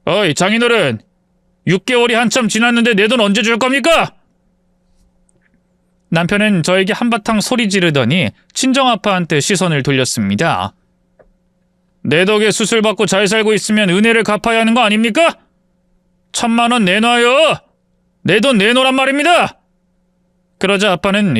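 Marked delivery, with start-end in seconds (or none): 0.1-4.1 rude demand. Acted. Husband demands debt from father-in-law. 12.0-19.6 rude demand. Acted. Husband demands ten million won.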